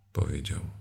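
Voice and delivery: usual speaking voice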